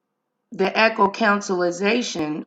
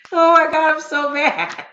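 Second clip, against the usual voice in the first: laughing mock outrage; 9 semitones higher, 4 dB louder than usual. Real, not acted. Laughing about her broken sound.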